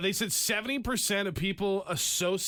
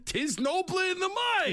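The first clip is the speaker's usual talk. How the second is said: New York Shakespeare; 11 semitones higher than usual. Retold or imitated. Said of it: "reading Shakespeare and it's like".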